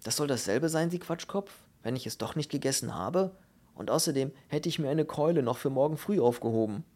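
indignant little man's rant; agitated indignation. Acted. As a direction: argue back, worked up and offended. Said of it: "starrte Steiner aufgewühlt an".

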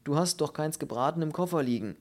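mildly angry grumbling rebuke; scolding. Acted. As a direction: scold him indignantly. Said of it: "schimpfte der Mann in der Ecke".

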